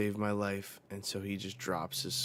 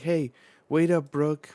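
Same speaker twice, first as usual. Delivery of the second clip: high, loud shout to stop; acted urgent call; calling after someone; 8 semitones higher, 13 dB louder than usual. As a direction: holler after a friend running off. Crew calls after running Brooke.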